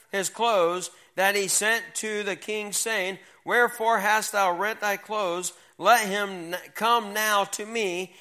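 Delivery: slow, measured Bible reading; scripture reading. Acted. Teacher reading Second Kings to young people, slow formal scripture read. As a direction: read the verse out slowly and with weight. Reads scripture aloud to youth.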